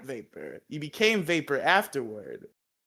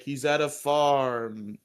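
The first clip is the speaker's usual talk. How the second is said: slow deadpan Zordon; much slower than usual. Retold or imitated. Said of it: "Zordon's like".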